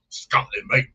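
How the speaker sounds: mock British Isles accent, badly faked; terrible accent. Host mimics a remark about Scotland, terrible accent. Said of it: "that was my terrible accent".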